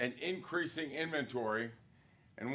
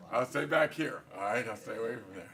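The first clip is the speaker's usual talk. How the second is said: laughing quote; 3 semitones lower, 3 dB louder than usual. Retold or imitated. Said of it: "she is freaking out".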